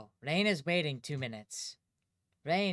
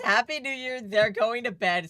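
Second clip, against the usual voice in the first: quoting loudly; 4 semitones higher, 8 dB louder than usual. Retold or imitated. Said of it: "Willow says".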